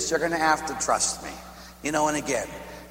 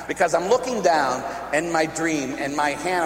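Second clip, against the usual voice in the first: ordinary talk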